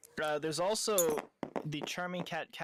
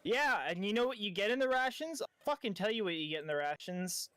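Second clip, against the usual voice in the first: higher-pitched testy comeback; aggravated; 5 semitones higher, faster than usual. Acted. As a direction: fire back as if fed up with the haggling. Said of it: "not meant to sound aggravated".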